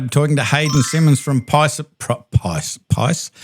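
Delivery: fumbling words with loose teeth; stumbling over the name, teeth slipping; loose dentures. Real, not acted. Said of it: "just put my teeth back in".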